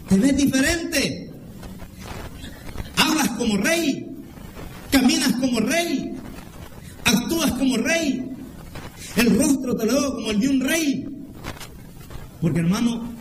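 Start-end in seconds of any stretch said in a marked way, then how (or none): 0.1-11.1 amazed uncle. Acted. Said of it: "lo que le dice el tío de Saúl es".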